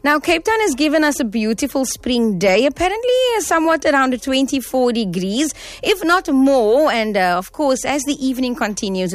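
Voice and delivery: upbeat on-air show rundown; radio presenter read. Acted.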